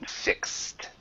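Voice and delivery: "fixed" said softly as "fikst"; one-syllable pronunciation. Shown as a demonstration. Teacher repeating the correction for student, soft one-syllable "fikst" for "fixed". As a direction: model "fixed" quietly, one syllable with voiceless "kst". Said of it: "the pronunciation here is more like this".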